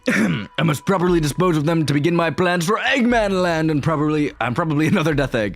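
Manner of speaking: lightly voiced villain announcing his plans; a hint of theatrical scheming; scheming game villain. Plays villain in game dialogue.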